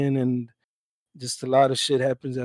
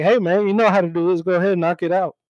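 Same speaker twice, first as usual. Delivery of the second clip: passive aggressive; 5 semitones higher, 6 dB louder, faster than usual. Retold or imitated. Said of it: "I'm being passive aggressive".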